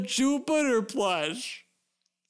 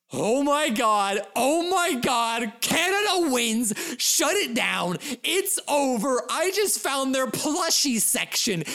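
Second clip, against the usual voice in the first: excited outburst; 4 semitones higher than usual. Real, not acted. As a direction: gasp it out like you hit the jackpot. Thrilled at finding plushie section.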